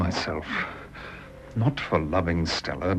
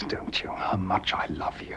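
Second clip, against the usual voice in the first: hushed plea; 6 dB quieter than usual. Acted. Lovers' private confession.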